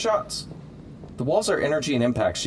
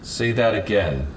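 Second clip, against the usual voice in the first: menacing challenge; 4 semitones lower, slower than usual. Acted. Grown to face Iron Man, slowly daring him to repeat the insult.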